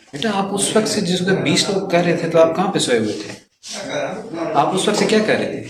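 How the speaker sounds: sharp teacher's reprimand, mostly rapid; exasperated scolding. Real, not acted. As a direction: scold a pupil who wasn't paying attention. Teacher scolds inattentive pupil.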